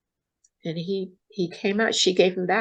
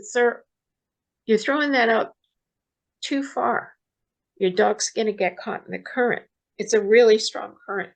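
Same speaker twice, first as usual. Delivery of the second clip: retold yell. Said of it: "I yelled to him".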